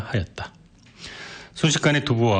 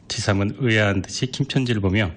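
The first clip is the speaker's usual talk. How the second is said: ordinary delivery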